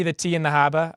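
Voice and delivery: lightly put-on Boston accent. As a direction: say it with a hint of Boston. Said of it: "the speaker doing accents".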